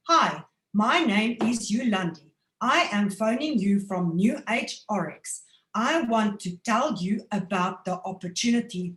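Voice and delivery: robotic automated pitch. Shown as a demonstration. Saleswoman demoing a canned phone opening, robotic. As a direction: read it like a recorded message. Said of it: "then you automate it".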